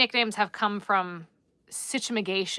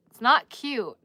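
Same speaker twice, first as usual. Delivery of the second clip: Long Island accent; 3 semitones higher, 5 dB louder than usual. Shown as a demonstration. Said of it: "the Long Island is not cute".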